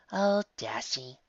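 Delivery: slow, sighing mother; weary sigh. Acted. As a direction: draw it out in patient resignation. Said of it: "sighs Mommy".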